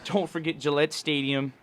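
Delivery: loud Boston fan voice; Boston accent. Retold or imitated. Fan listing Boston landmarks, in a Boston accent. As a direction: boast like a Boston local. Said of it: "that was our resident Bostonian".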